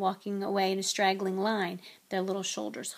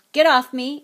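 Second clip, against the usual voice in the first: loud, higher gnome protest; squeaking gnome; 5 semitones higher, 13 dB louder than usual. A narrator's reading. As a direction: yelp it like a captured little creature. Same gnome protesting while swung.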